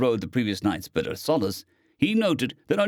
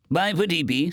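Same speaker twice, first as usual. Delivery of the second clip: scoffing; 6 semitones higher than usual. A narrator's reading. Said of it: "Stowaway scoffed".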